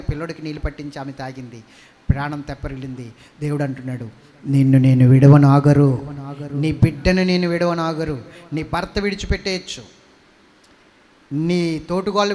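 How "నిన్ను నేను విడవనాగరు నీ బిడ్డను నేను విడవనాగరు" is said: loud, slow, lower divine vow; God's promise. Acted. God promises abandoned Hagar he will not leave, loud and slow. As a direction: declare it like an unbreakable oath.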